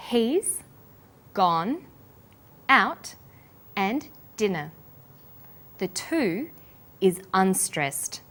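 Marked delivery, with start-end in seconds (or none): 0.1-4.7 "he's", "gone", "out", "dinner" each said alone with a pause between; separate, deliberate stress on "he's", "gone", "out", "dinner"; stressed words singled out. Shown as a demonstration. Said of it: "We stress".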